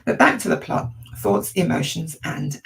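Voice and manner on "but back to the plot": higher, breathy crack on back; voice breaking. Real, not acted. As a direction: voice cracking as it pushes on. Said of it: "My voice has gone a bit quavery there".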